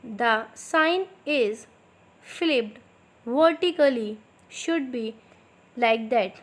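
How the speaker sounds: slow, clear dictation pace for students to write. Shown as a demonstration. Teacher dictating slowly to her students. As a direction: spell it out slowly so they can copy. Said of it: "थोड़ा मैं slow slow बोलूँगी".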